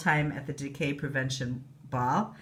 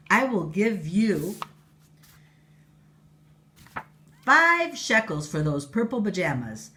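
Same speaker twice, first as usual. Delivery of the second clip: queen voice; 3 semitones higher, 5 dB louder than usual. Acted. Queen bargains.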